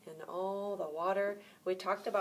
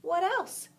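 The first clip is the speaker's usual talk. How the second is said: impatient; 9 semitones higher than usual. A narrator's reading. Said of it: "asked the fish impatiently".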